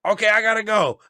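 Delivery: lightly imitated Marco. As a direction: announce it like a sly coworker. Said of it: "he's like".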